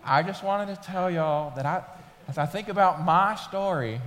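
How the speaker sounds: a light Mississippi Southern accent, lightly put on; imitating Southern accent. Pastor imitating his wife's Mississippi talk, mild Southern accent. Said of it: "so she talked very Southern then".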